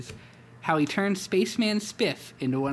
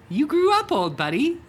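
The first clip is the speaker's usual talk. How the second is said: tender tiger voice; 13 semitones higher, 8 dB louder than usual. Acted. Hobbs tender, loud.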